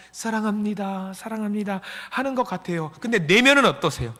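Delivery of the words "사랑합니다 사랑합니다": lovey-dovey. Acted. Churchgoers greeting each other lovingly, soft and sweet. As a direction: coo it softly, all outward sweetness. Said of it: "너무나도 사랑스러운 모습으로".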